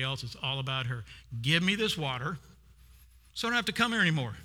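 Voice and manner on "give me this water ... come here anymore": mock self-centred whine. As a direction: rattle it off like she only cares about herself. Mimicking her self-centred request.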